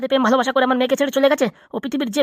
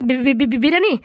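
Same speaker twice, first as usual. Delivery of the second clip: astonished stammer. Acted. Captive hears biryani is promised, astonished stammer. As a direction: stutter on the first syllable in disbelief.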